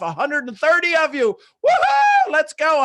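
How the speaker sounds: loud cheer with a big whoop and laugh; excited cheering. Real, not acted. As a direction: fire up the crowd with a whoop. Cheering the audience count.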